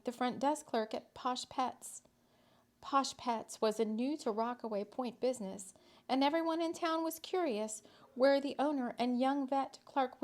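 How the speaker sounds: lively storyteller reading; story narration. A narrator's reading. Reading a whimsical town story to listeners, lively narration. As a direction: tell the tale with a light touch.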